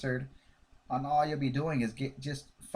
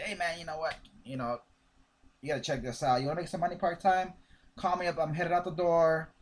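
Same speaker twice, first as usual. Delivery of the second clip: upbeat, quicker, eager pitch; excited. Shown as a demonstration. Trainer showing recruits the right way to pitch, excited. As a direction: sound like you can't wait to share it. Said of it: "You gotta be excited".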